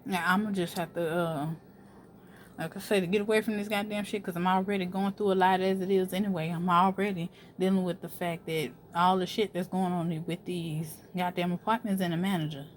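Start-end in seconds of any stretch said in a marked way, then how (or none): 4.9-12.7 talking while chewing gum; chewing gum while venting, softer. Real, not acted. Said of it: "I got gum in my mouth".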